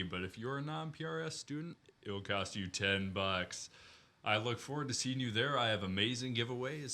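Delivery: booming event announcer hyping a show. Pretend. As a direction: sell it like a fighting game announcer. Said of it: "switch to your announcer voice".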